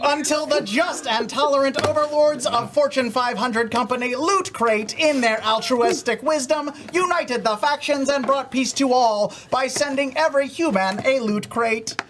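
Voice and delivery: robot voice, stiff and announcer-like; a lightly voiced robot from the future; old speech synthesizer. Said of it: "Sam three thousand".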